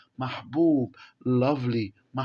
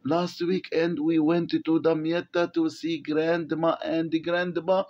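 slow reading aloud; 3 semitones higher, much slower than usual. Shown as a demonstration. Teacher reading the text to the class, very slowly. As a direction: read each English word very slowly for the class.

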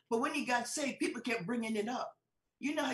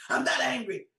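loud mock-offended protest; indignant denial; 7 dB louder than usual. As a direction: snap back as if wrongly accused.

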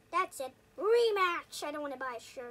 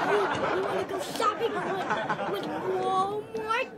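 laughing while talking; 3 dB louder, slower than usual. Real, not acted.

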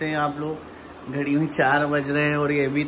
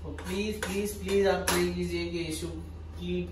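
softly, so as not to disturb anyone; hushed late-night voice; 8 dB quieter than usual. Real, not acted. Husband quietly telling viewers about noodles at night, hushed. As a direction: keep it down, half-whispered at night.

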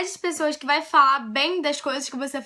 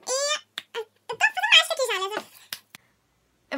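much higher fast squeak; silly aside; 12 semitones higher than usual. Real, not acted. Vlogger joking about her mask, higher and fast. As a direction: rattle off a goofy aside. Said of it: "jokes about her face mask".

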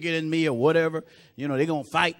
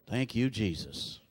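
much lower and softer, slow; soft aside; 7 semitones lower, 10 dB quieter, slower than usual. Real, not acted. Preacher thanking Jesus quietly between lines, hushed and low. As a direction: breathe it out under your breath.

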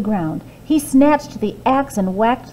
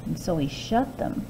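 softening; 3 semitones lower, 9 dB quieter than usual. A narrator's reading. Giant drifting off.

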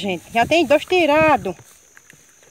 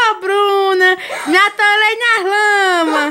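laughing-crying call; 4 semitones higher, 3 dB louder, much slower than usual. Retold or imitated. Calling sister, laughing-crying retold.

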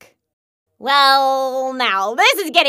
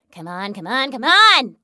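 building urging; 5 semitones lower than usual. Acted. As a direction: urge it on, rising in volume. Urging, soft building louder.

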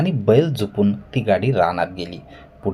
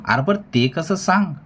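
narrator's restrained acted yell; mild crowd shout; 8 semitones higher than usual. A narrator's reading. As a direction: call out the question impatiently, pitched up. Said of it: "चावडी ओरडली".

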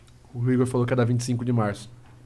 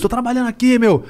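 indignant; 8 semitones higher than usual. Retold or imitated. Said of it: "Você quer falar".

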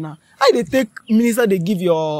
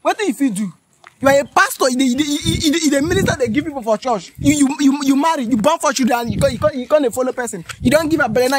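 higher pitched, heated telling-off; angry scolding; 3 semitones higher than usual. Acted. Woman berating the pastor for fathering children, heated. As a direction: scold him hard for his hypocrisy.

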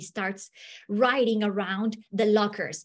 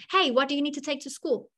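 asking questions; 3 semitones higher, faster than usual. Retold or imitated. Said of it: "For example".

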